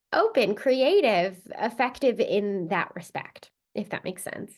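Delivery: talking through a head cold; stuffed-up nose. Real, not acted. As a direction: sound congested from a cold. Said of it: "if I sound a little stuffed up".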